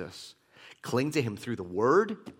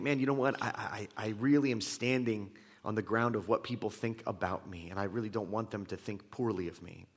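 soft, lowered voice of public prayer; closing prayer; 4 dB quieter than usual. Real, not acted. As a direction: pray quietly on behalf of the congregation.

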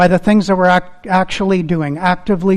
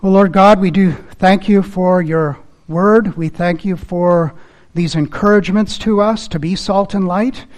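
closing prayer. Acted. Pastor praying for the congregation after the sermon, hushed and earnest. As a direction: pray humbly over the congregation, unhurried.

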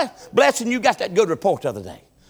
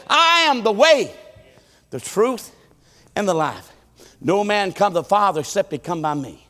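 Jesus' words, preached. Acted. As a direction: lay the words down one by one, fading. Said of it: "But Jesus said".

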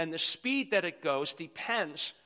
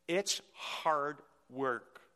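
slow emphasis; 4 semitones lower, much slower than usual. Real, not acted. Pastor stresses point slowly.

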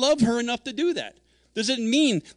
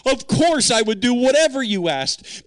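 higher and louder, a gladly willing yes; eager yes; 4 semitones higher, 5 dB louder than usual. Retold or imitated. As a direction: answer God with eager devotion. Eager willing reply to God.

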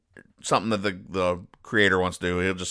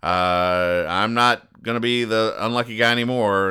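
excited legionnaire. Retold or imitated. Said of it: "he goes".

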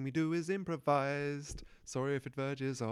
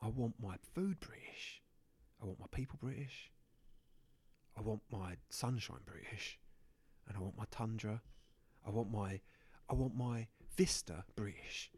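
low, quietly seething mock rant; frothing patriotic rant; 4 semitones lower, 6 dB quieter than usual. The speaker listing what must stay British, quiet seething rant. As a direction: seethe softly, repeating each demand with pauses. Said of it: "You're frothing at the mouth a bit there".

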